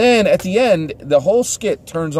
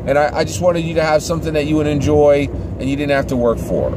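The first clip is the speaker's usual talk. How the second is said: overly gracious lady at the door; church lady voice; 3 semitones higher than usual. Retold or imitated. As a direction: lay on the polite neighbor sweetness, pitched up. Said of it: "and she says".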